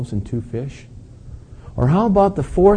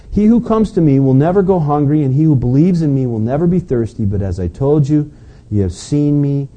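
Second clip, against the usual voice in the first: preaching scripture aloud. Acted. Preacher reading Jesus's words aloud to the congregation, ringing and raised. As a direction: proclaim each promise to the whole church.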